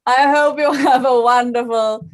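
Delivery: puppet farewell with a British lilt; slightly British accent. Acted. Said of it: "my Chinese shadow puppet has a slightly British accent".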